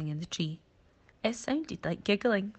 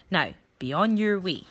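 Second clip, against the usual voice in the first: a louder curt brush-off, stressing on; dismissive; 6 dB louder than usual. Acted. Rhino dismisses the monkey, a curt loud brush-off. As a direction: send him packing.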